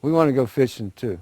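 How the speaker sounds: a lightly voiced turtle begging to come along; pleading turtle. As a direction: coax Rabbit like an eager turtle. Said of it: "The turtle says".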